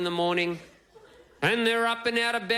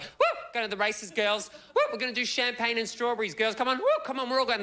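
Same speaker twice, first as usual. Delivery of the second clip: put-on excited party girls; 4 semitones higher than usual. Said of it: "The fascinators all excited".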